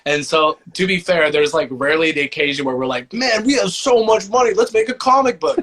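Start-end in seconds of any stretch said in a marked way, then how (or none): 3.1-5.6 high-pitched, gleeful mock boast; as if suddenly flush with cash, hammed up; mock excitement. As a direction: play up pretend excitement, pitched well up. Acted quote of imagined bandmates' excitement.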